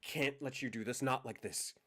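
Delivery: emotional outburst. Acted. NPC confession, rising emotion.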